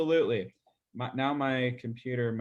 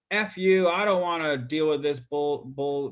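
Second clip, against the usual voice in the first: retold angry outburst. Annoyed homeowner snapping at a cold caller, mock-angry shout. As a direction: spit it out like an irritated homeowner hanging up. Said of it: "one person ... said".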